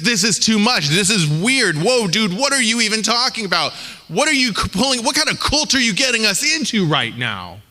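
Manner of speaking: lightly hammed-up disbelief, half sung; a touch of what-is-this-cult alarm; incredulous listener. Listeners balk at strange teaching.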